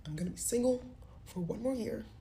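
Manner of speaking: whispered, barely holding back tears; a broken whisper, fighting tears. Retold or imitated. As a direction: breathe it out so you don't cry. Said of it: "I'm trying not to cry".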